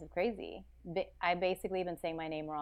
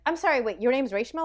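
retold surprise; 5 semitones higher, 8 dB louder than usual. Acting out surprised Instagram messages.

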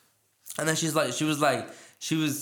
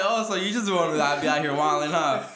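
teasing; 2 semitones higher, 4 dB louder than usual. Retold or imitated. Teasing the woman about her open relationship, loud and amused. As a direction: tease her, half laughing and loud.

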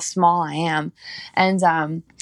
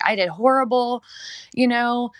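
upset in tears; 4 semitones higher than usual. Retold or imitated. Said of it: "Like, I was in tears".

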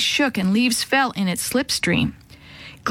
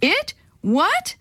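startled; 10 semitones higher than usual. Acted. Dad startled.

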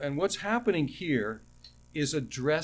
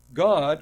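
"God" said loud and marked as all caps; loud stress on God; 8 dB louder than usual. Shown as a demonstration. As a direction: hit the word "God" hard. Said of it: "all capital letters".

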